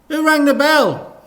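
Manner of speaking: loud high call from another room; Dad calling from the bedroom. Acted. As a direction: shout it down the hall.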